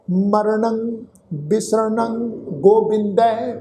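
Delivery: slow, measured chant of the verse; scripture recitation. Acted. Teacher reciting the shalok for the sangat to repeat, slow chant. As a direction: intone each line slowly for them to follow.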